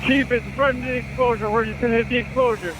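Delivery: shouting into the radio over noise; loud radio call from the fireground; yelling over fire hose. Real, not acted. Firefighter radioing from fire scene.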